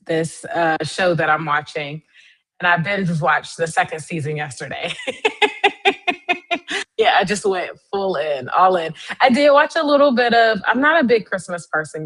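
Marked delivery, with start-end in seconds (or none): 5.0-6.9 high giggle at herself; real sheepish laughter. Real, not acted. Laughing at own binge.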